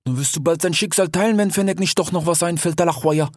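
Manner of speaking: lightly voiced sly desert fox talking to his friend; a hint of a streetwise fox, casual and teasing; fox character voice. Desert fox speaks to the sick grey fox, lightly voiced.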